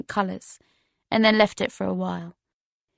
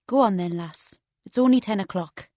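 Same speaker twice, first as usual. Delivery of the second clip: Geordie bouncer. Acted. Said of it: "in a strong Geordie accent".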